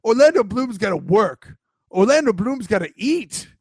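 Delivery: half-hearted celebrity impression with no British accent; Orlando Bloom. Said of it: "Orlando Bloom just shows up and goes".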